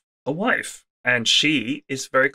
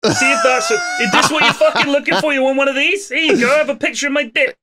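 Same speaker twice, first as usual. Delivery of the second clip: furious, fast and higher shout; angry shouting; 11 semitones higher, faster than usual. Pretend. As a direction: rant it out like an outraged sender. Mock angry text to mother.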